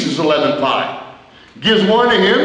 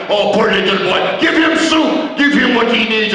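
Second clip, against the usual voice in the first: fussy wrestler; 3 semitones higher than usual. Retold or imitated. Wrestler suddenly fussing over kid.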